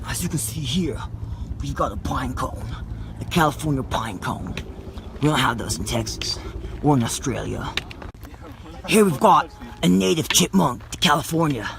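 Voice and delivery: mock Australian nature-show host; Australian accent. Explorer showing viewers California finds, in an Australian accent. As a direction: present wildlife as an Aussie explorer. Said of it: "Can you speak in an Australian accent".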